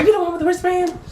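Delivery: high, snippy mimicry of the neighbor; mock attitude. Neighbor confronting mom about the wristband, snippy. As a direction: ask it with snide attitude.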